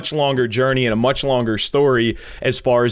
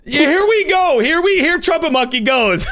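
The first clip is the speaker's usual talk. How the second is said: laughing; 12 semitones higher than usual. Real, not acted. Host laughing at guest's jab.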